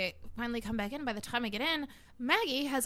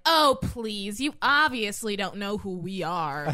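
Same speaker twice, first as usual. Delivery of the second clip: loud, scoffing retold brag; loud and dismissive, slowing into the boast; cocky comeback; 7 dB louder, slower than usual. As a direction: brush them off with swagger.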